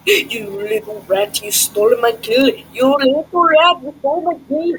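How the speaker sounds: loud outraged yell; yelling while running away. Real, not acted. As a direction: yell it, furious at the thief. Outraged at stolen kill.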